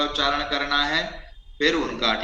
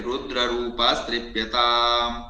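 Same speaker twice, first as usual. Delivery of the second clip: mantra recitation. Shown as a demonstration. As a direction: intone each syllable deliberately. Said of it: "तीन बार बोलकर".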